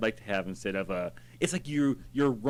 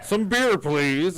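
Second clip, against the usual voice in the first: pirate; 4 semitones higher, 5 dB louder, much slower than usual. Retold or imitated. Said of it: "they're gonna come back with the king's crown and be like".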